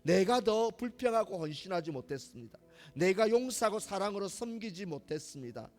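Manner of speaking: earnest, rising prayer of confession; model prayer of repentance. Shown as a demonstration. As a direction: voice a heartfelt confession to God. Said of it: "가 아니라".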